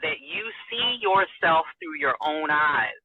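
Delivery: slow, wise counsel. Retold or imitated. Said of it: "he said to me".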